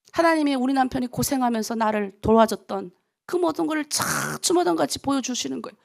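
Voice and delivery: ordinary delivery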